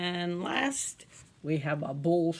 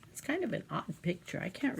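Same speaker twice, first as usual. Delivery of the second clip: whispered aside; 5 dB quieter than usual. Real, not acted. Teacher whispering to children about an odd picture. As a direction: whisper it half to yourself.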